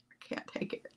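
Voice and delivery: breathy whisper, mock overwhelmed; whispered repeat. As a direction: let it fade to a whisper. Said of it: "repeat, whispered".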